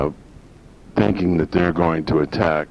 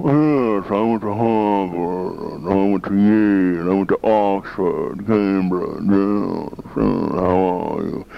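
slow, drawn-out mock posh British accent; British accent bragging about Harvard and Yale, mocking Downton Abbey; slower than usual. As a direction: boast like a snooty Oxbridge Englishman in a British accent. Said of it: "with that British accent".

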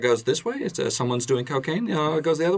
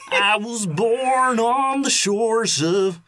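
mock epic voice; 7 semitones higher, slower than usual. Mock epic origin line.

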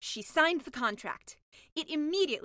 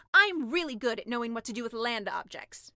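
bragging; 6 dB louder than usual. Acted. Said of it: "bragged the mermaid".

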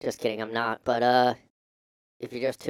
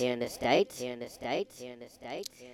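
each repeat softer until gone; fading echo; 3 semitones lower, 7 dB quieter than usual. Acted. Host's words echoing softer and softer into silence. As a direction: echo dying away.

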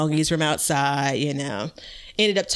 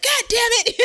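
very high mock cursing; retold exasperation. Reliving watching the camera footage, high-pitched mock exasperation. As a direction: curse in a high squeal, about to laugh. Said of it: "watching on the camera like".

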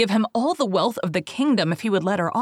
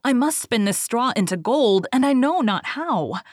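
higher distressed maiden; 5 semitones higher than usual. Acted.

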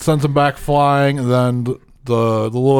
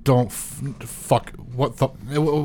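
blurted softly; 7 dB quieter, slower than usual. Retold or imitated. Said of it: "blurt out very softly".

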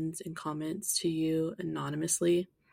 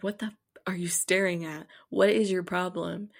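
confrontation; 5 dB louder than usual. Retold or imitated. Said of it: "I'm like".

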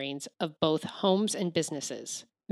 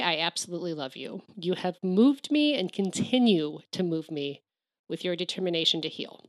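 crying. Real, not acted. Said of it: "Ugh, I didn't want to cry".

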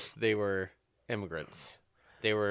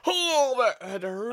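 retold wince; 13 semitones higher, 5 dB louder than usual. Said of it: "I'm like".

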